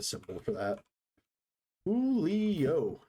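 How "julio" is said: high called name; calling out. Real, not acted. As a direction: call his name across the room. Calling out to a friend.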